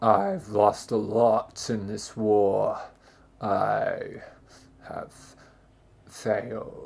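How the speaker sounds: gruff, very low, slow soldier voice. Describing a soldier from a past squad: imitating a gruff soldier. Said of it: "the gruff one, like".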